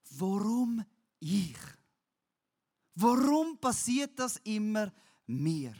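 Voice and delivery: loud, pained plea of why me; anguished cry. Retold or imitated. Preacher voicing the despairing asking why me.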